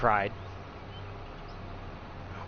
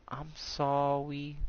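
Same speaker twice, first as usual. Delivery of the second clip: put-on little girl voice; 8 dB quieter, slower than usual. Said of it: "and she goes".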